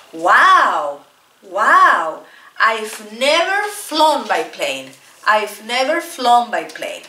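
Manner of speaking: slow marvelling repeat; first flyer gazing around in the cabin; amazed wow. Shown as a demonstration. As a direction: sound impressed on the plane, gently. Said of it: "Imagínense que estoy dentro del avión".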